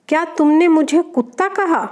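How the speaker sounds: husband demanding an answer, mildly heated; angry husband. Acted. Husband confronts silent wife, mildly angry. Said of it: "पति गुस्से में".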